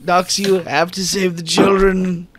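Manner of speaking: high strained voice of a dying man; a dying keeper's high broken plea; weak broken voice. Acted. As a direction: gasp it out, fading but urgent. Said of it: "the weak, broken voice of Keeper".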